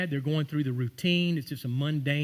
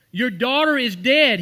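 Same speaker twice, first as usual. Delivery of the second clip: grave announcement; 7 semitones higher, 8 dB louder than usual. Retold or imitated. Messenger's news voiced in sermon.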